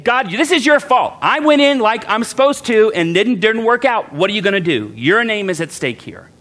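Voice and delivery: blaming God. Retold or imitated. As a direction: throw the blame at God, indignant. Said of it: "Essentially blame".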